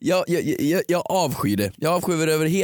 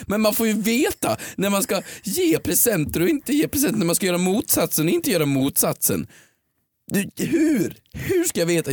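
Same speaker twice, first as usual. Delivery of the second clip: higher mock Keyyo voice, exasperated; imitating Keyyo; 6 semitones higher than usual. Mimicking the cohost's complaint about gifts. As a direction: pitch it up and whine like your cohost. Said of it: "Det var en ganska bra Keyyo-imitation".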